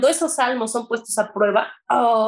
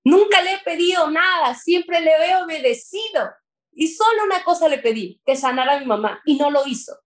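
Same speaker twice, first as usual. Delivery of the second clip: a believer reliving betrayal by God; raised, anguished voice; 5 semitones higher than usual. Real, not acted. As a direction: pitch up, pleading in disbelief. Reliving anguish at mother's death.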